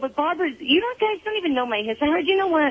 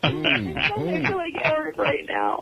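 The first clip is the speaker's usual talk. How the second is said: tearful, slow, breaking into sobs; real tears coming through the words; crying; 6 semitones lower than usual. Real, not acted. Grieving caller crying to the radio host. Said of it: "while you're crying".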